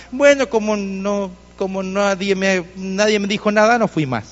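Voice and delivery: slow, halting imitated excuse; hesitant excuse. Waiter explaining why he stopped going, hesitant. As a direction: stall and restart as you imitate the excuse.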